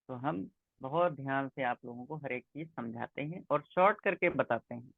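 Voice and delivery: choppy, cutting-out call audio; like a bad online connection dropping words; voice breaking up. Real, not acted. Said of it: "sir जी, आपकी आवाज बहुत फंस रही है।".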